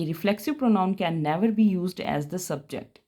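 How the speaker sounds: reads the rule out slowly for notes; slow, clear English rule read to students; slow dictation read. Shown as a demonstration. Teacher reading a grammar rule aloud to the class, slow and clear.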